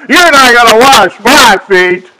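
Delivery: Peter refusing the master; Peter protesting. Retold or imitated. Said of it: "he's gonna speak up".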